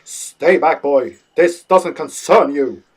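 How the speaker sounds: loud shrieked warning; shrieking. Acted. Grandpa shrieking at the boy to stay back. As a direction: bark it out loud to keep the boy away. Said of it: "Grandpa shrieked like a stonewalled stockbroker".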